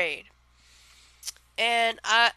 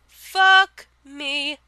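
excited exclamation; 6 semitones higher, 9 dB louder than usual. Acted. Repeat of the phrase.

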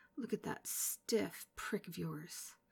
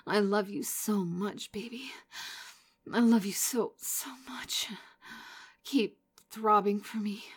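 building from eager moans to loud, high cries; rising aroused moans; 6 semitones higher, 5 dB louder than usual. Acted. Lover nearing the edge, building to loud high cries. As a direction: let it climb higher and louder until you have to stop.

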